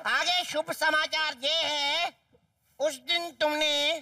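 slow, deliberate read-aloud; teasing letter reading. Acted. Boy reads out a love letter to tease, slow recital. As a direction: draw out each phrase of the letter.

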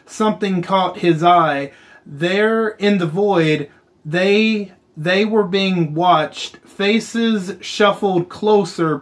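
measured, dramatic reading of a grim tale; deliberate storyteller delivery; story narration. A narrator's reading. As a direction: read a horror story aloud, pausing for weight. Reads game's story aloud.

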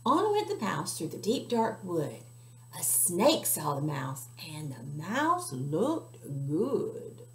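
put-on slow, sing-song read-aloud for children; story narration. A narrator's reading. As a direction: storytime voice for little listeners. Reading a picture book aloud.

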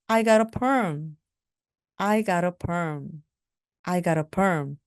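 slow, careful model sentence; deliberate classroom pronunciation; slow teaching drill. Shown as a demonstration. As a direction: say it slowly for learners to repeat. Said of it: "slow model sentence drill".

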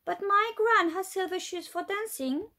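put-on a child close to tears, understated; wobbly voice. Molly to her teacher about gran's shoes, mildly tearful. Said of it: "said Molly in a wobbly voice".

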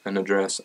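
"address" as uh-DRESS; unstressed first vowel. Shown as a demonstration. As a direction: stress the second syllable of "address". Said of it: "however you would like me to say that".

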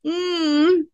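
pained moan. Acted. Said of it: "The woman moaned".

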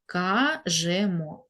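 "Кажемо" slowly split as ка-же-мо; syllable-by-syllable dictation. Shown as a demonstration. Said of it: "ми пишемо букву «е»".

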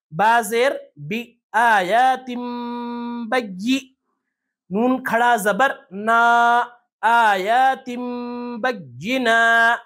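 slow chanted build-up, syllable by syllable; spelling-out recitation. Shown as a demonstration. Teacher assembling the example for learners, slow hijje chanting. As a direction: spell each piece, then recite it drawn out. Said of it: "ہجے بھی کر لیتے ہیں".

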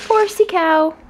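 cutesy. Real, not acted. Showing the toy to camera.

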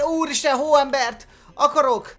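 high, loud and eager; excited outburst. Real, not acted. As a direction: burst out wanting a snowman. Excited gamer wants snowman.

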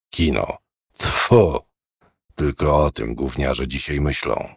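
put-on low, soft old man's voice, grumbling; a sour old man complaining low and quiet. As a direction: set him to work, then grumble quietly.

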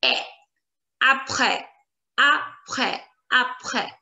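APRÈS ending on open EH, silent S; open eh sound. Shown as a demonstration. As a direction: model EH, then "ap-reh" for APRÈS. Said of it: "the sound that you need to get".

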